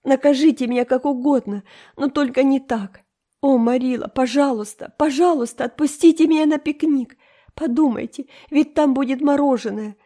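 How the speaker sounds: put-on high, loud, pleading girl; desperate pleading. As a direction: beg as if everything depends on it. Энн умоляет Марилу. (Энн в отчаянии умоляет Марилу отпустить её)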